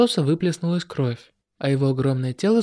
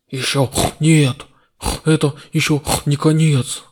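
hoarse mutter; 4 dB louder than usual. Acted. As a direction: rasp it out like a wounded demon. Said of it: "Хрипло пробормотав". (хриплый голос демона)

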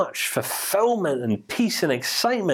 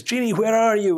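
calling out high and louder; calling the genie; 7 semitones higher, 3 dB louder than usual. Acted. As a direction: summon the genie from the lamp. Sun summons genie in story.

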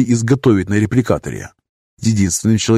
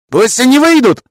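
a cracked high yell; falsetto shout; 6 dB louder than usual. A narrator's reading. Master demands soldiers leave, falsetto shout. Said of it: "фальцетом выкрикнул репликаторщик".

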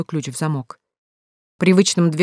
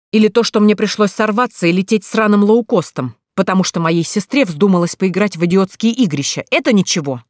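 angry tirade; 4 semitones higher, 4 dB louder than usual. Acted. Разъярённый брат отчитывает сестру.

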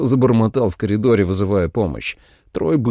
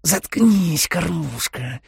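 snarling vampire, higher; vampire hiss; 9 semitones higher, much slower than usual. A narrator's reading. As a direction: hiss it at the prey. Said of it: "прошипела она".

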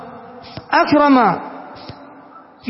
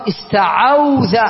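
slow demo; much slower than usual. Shown as a demonstration. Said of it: "العين مفتوحة والواو ساكنة".

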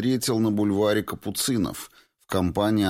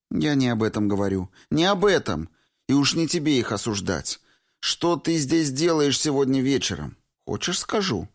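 put-on higher young woman's voice, lightly teasing reproach; 8 semitones higher than usual. A narrator's reading. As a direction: Valentina scolding her old friend Clifford, higher and reproachful. Valentina retorts.

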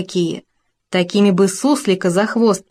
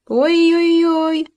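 long, high drawn-out "ой-ой-ой" wail; howling wail; 10 semitones higher, much slower than usual. A narrator's reading. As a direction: wail it out in pain, slowly. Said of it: "снова взвыл Хома".

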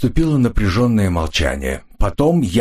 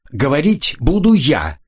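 shouting; 7 semitones higher than usual. A narrator's reading. Girl claims the floor from Jan, shouting. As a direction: bark the line to silence him. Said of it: "закричала на него девушка".

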